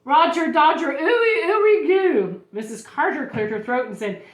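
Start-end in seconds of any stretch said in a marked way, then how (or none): 0.0-2.4 high, loud burst of nonsense words; excited little girl letting silly words fly; blurted out. A narrator's reading. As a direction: blurt it high, stretching the last sounds. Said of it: "blurted out".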